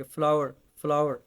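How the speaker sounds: फ्लावर repeated as 'flaa-war', each one set apart; model pronunciation. Shown as a demonstration. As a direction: drill फ्लावर in two syllables, rhyming with 'our'. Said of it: "उसको हम फ्लावर बोलेंगे".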